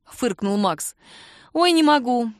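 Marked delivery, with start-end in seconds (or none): 1.5-2.3 laughing. Acted. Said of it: "Кира рассмеялась".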